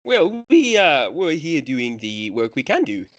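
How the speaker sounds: high, hesitant opening, settling into slow words; flustered temple priest. Acted. Priest answers a critical visitor about conditions outside, flustered and high at first. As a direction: defend the temple's work haltingly.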